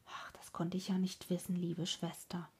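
soft, soothing reply; gently appease her, keeping the voice down; hushed, conciliatory apology; placating. A narrator's reading. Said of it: "erwiderte der Bruder begütigend".

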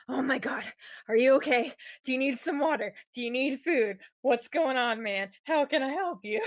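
a flustered rush of worried questions; hammed-up worried fluster over a friend; panicking. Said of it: "start freaking out and panicking and going".

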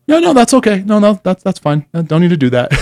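high-pitched mock timid voice; meek backing down. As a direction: imitate a tough guy suddenly chickening out. Buddy suddenly backs down from fight.

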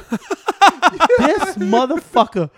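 high, slow, laughing put-down; laughing mock scorn. Mocking the woman tossing the gift.

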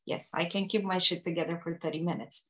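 self-talk. Retold or imitated. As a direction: reassure yourself under your voice. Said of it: "telling myself that I can keep".

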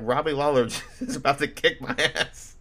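laughing through the words; half laughing at his own fear. Real, not acted. Telling the co-host about Robbie Lawler, laughing.

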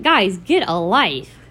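slow, spaced-out put-down; mock exasperated advice. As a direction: stretch it out for the imagined killjoys. Mock advice to over-serious people.

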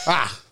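short, loud mock sob; quick burst of fake crying; imitated cry. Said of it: "I cried".

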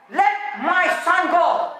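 preacher voicing a divine order; voice of God. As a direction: draw out each word with authority. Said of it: "It's a voice of God".

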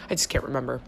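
slight lisp from a retainer; wearing a retainer. Real, not acted. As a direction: talk around a retainer in the mouth. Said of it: "my retainers are in".

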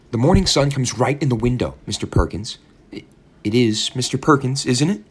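put-on high, gushing old landlady; landlady's voice. A narrator's reading. Landlady gushing to her new young lodger, high and sweet. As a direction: purr over every word, eager to please.

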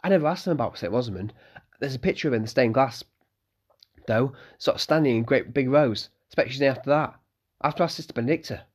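put-on eager young innkeeper's son; young Malcolm.

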